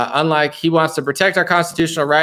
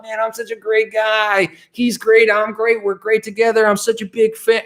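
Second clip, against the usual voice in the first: mocking Trump voice; 6 semitones higher than usual. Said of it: "And I thought".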